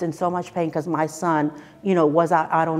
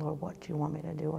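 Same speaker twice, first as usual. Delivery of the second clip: retold tearful prayer; 13 dB quieter, faster than usual. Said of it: "sit there and cry".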